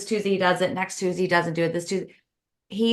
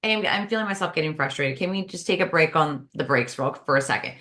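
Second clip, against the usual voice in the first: calm, gentle ask, sinking lower at the end; mild, non-blaming plea, easing down in pitch; gentle request; 4 semitones lower than usual. Shown as a demonstration. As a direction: bring it up gently with a partner. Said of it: "It's a gentle conversation".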